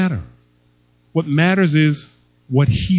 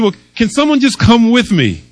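1 pleading grandson; 7 semitones higher, 4 dB louder than usual. Retold or imitated.

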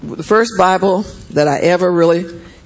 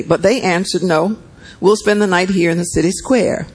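steady, measured Bible reading; scripture reading. A narrator's reading. Preacher reading Genesis to the church, measured. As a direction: read the passage to the congregation.

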